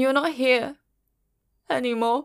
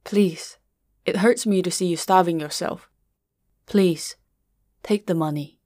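gentle, pleading, a touch lower; softened voice; 3 semitones lower than usual. Acted. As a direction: ease off into a tender plea. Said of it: "you softened your voice".

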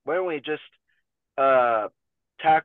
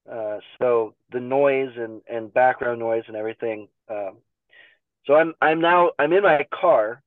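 muffled, like under water; underwater. Real, not acted. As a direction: sound as if submerged. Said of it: "it sounds like I'm under, underwater going".

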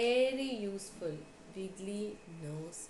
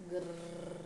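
low storybook growl; angry crocodile growl; 3 semitones lower than usual. A narrator's reading. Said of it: "crocodile was very angry".

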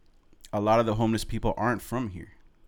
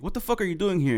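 high-pitched mock yell at moderate volume; high, half-hearted holler; retold scream; 9 semitones higher than usual. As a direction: imitate a friend yelling in disbelief. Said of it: "he just starts screaming".

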